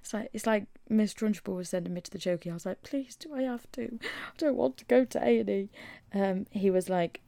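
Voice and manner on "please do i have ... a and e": high, loud pleading whine; whiny begging. Retold or imitated. To the GP, a loud high pleading whine. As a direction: beg him not to send you.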